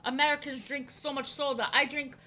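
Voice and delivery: mocking French girl. French classmate looking down on American soda drinkers, mock French accent. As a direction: put on a snooty French accent to imitate her. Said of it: "That is how she acted".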